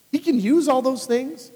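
ordinary talk, nothing marked

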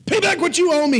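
high, loud demand for the money. A narrator's reading. Servant demanding repayment from his fellow, loud and high. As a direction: bark the demand at him. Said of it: "he demanded".

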